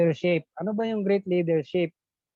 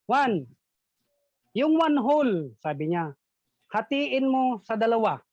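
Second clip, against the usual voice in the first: higher teacher's instruction; lightly voiced teacher; 4 semitones higher than usual. Teacher asking Juan to split the paper, higher. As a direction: set the task like a teacher.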